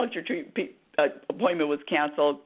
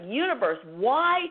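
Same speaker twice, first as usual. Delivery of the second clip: demanding plea; 4 semitones higher than usual. Retold or imitated. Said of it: "wasn't really nice with my demand".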